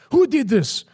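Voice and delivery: very high, loud mock outrage; comical shouting. Guru confronting priests over broken peacock, comical shouting. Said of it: "he started shouting".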